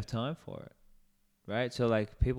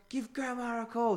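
high put-on voice; 13 semitones higher, 4 dB quieter than usual. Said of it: "He's like".

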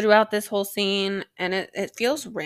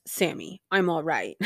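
lightly voiced reassuring dad; a hint of a father impression, slightly lowered; John Winchester; 2 semitones lower than usual. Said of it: "That's my John Winchester impression".

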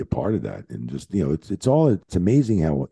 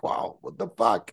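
slow, whispered disbelief; stunned whisper; 4 dB quieter than usual. Retold or imitated. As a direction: breathe it out, floored. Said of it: "I'm like".

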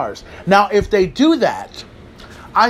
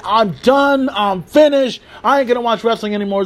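mock complaining fan; 5 semitones higher, 3 dB louder than usual. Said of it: "you're not gonna hear me complain saying".

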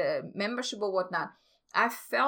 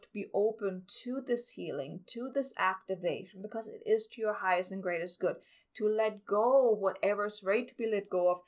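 calm meditative tone. Acted. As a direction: guide them gently into calm. Leads a guided healing meditation.

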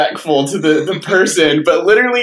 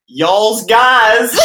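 higher, hammed-up Jersey-redneck mashup; Jersey-redneck accent; 6 semitones higher, 4 dB louder than usual. Shown as a demonstration. Pitching a Jersey and redneck combination, mock accent. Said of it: "like Jersey slash, like, redneck combination".

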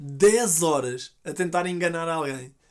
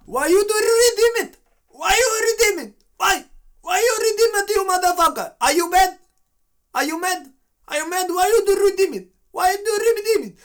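put-on much higher and louder, furious accented English shouting; angry Indian scammer; 12 semitones higher, 5 dB louder than usual. Scammer yelling at the fake granny, furious accented shout. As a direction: yell at her for stealing the cards. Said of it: "o indiano irrita-se".

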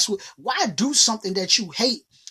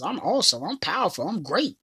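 affirmation demo; 5 dB quieter than usual. Shown as a demonstration. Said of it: "using these positive affirmations".

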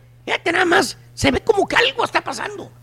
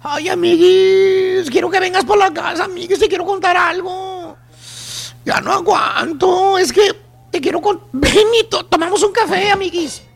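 put-on gossipy best-friend whine, lightly voiced; whiny girlfriend chat. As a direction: plead with a girlfriend, stretching the word endings. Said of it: "le habla así, le dice".

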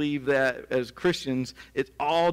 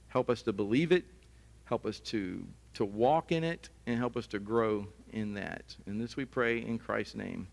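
closing prayer. Acted. Preacher leads the congregation in a closing prayer, earnest.

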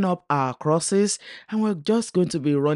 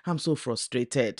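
muttered under the breath, softer; a frustrated, softer mutter; 5 dB quieter than usual. Acted. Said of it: "she muttered".

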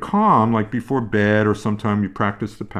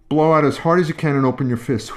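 blowing out hard; 3 semitones higher, 3 dB louder, faster than usual. Shown as a demonstration. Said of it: "Try this with me".

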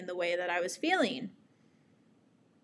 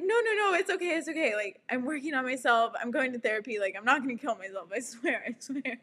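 calm them down, begging; reassuring; 3 semitones higher, faster than usual. Retold or imitated. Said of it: "I was like".

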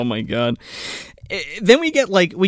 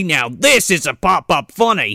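put-on light Australian accent with the stress on "this"; a hint of Australian, proud stress on "this"; Paul Hogan impression. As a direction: show off the bigger one and punch "this". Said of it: "It's Paul Hogan".

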